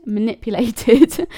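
laughing at herself. Real, not acted. Laughs after stumbling over the word.

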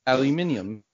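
put-on British pronunciation; playful British accent; mock British accent. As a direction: enunciate it in a fake British accent. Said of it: "things that British people apparently say".

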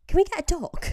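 high, sweet wheedling question; butter him up with a high plea; a loud sugary "can we get a dog"; manipulative ask. Retold or imitated. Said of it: "Millie the manipulator came out".

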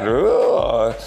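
drawn-out "ugh"; mock disgusted groan. George looking at the lava pool, mock disgusted groan. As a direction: groan in exaggerated revulsion.

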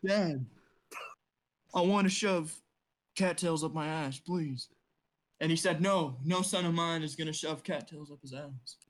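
lightly voiced mock campaign speech; a hint of an old politician's stump speech; Joe Biden speech. Mock presidential speech as Joe Biden, lightly voiced. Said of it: "That was a great speech, Joe Biden".

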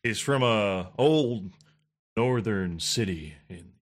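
low, slow tongue-in-cheek build-up; deep, deliberate mock-solemn intro; mock dramatic introduction. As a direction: intone it slowly like a legend being told. Mock announcer-style 'some say' introduction.

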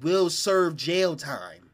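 slow, deliberate reading of the warning; slow ominous read. Retold or imitated. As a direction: read the letter slowly, heavy. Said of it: "with bolded letters said".

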